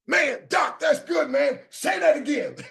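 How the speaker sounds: imagined admirer. Pretend. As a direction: play an impressed fan cheering on the speaker. Voicing a listener's praise.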